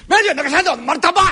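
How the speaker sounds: loud, high yelled insult; angry shout. Acted. Carpenter hurling an insult at the landlord, angry shout.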